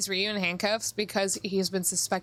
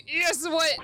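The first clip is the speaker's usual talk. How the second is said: usual speaking voice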